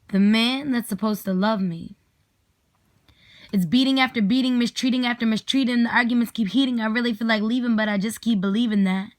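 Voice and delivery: spoken word poetry reading; spoken word poem. Acted. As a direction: perform the poem with steady rhythmic weight. Recites her poem aloud.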